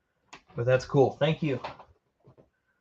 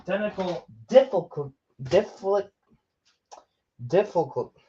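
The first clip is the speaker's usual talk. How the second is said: weird voice; 4 semitones higher than usual. Real, not acted. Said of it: "Why am I talking weird now?".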